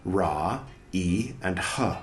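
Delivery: measured, deliberate reading of a scholarly text; formal read-aloud. Acted. Reader reciting a dense book passage aloud, formal reading. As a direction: read it out clearly, pausing between phrases.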